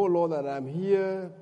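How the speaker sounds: normal talking voice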